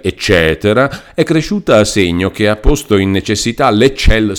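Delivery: lightly voiced lawyer rattling off an old decree; reading a decree aloud. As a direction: read the legal text aloud, rushing some parts. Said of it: "fermandosi distintamente, con grande espressione". (avvocato che legge la grida, borbottando in fretta)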